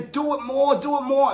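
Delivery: high, loud repeated push; dad pumping up his laughing daughter; urging. Retold or imitated. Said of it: "And I'd say".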